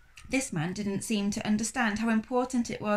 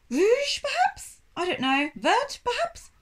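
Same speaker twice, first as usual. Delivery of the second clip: vague French shopman; 12 semitones higher, 3 dB louder than usual. Acted. Man recalls French colour words.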